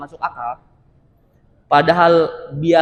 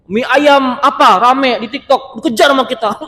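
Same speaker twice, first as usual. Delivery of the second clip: high, slowed mock excitement; hammed-up hype of someone chasing a viral food; imitating trend-chasers; 7 semitones higher, 5 dB louder than usual. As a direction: gush like an easily swayed follower. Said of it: "orang kadang-kadang latah".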